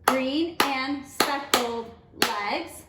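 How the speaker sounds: slow, each syllable counted; teacher counting the line out; clapped out syllable by syllable. Shown as a demonstration. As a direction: clap every syllable. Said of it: "Let's count that out".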